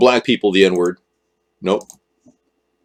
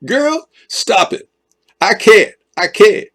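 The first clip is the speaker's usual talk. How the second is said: giggling; 10 semitones higher, slower than usual. Real, not acted. Giggling reply to a joke.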